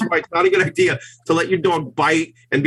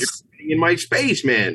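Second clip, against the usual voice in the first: mock annoyed dog. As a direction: whine it like a dog whose space is invaded.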